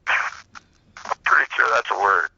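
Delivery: a very slow, smug retold retort; slow drawn-out punchline. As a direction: stretch it out slowly, savoring the comeback.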